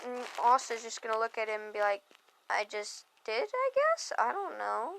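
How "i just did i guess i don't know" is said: voice breaking and cracking mid-line. Retelling a scene, giving a character's reply to Magna, voice cracking. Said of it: "I just had a voice crack right there".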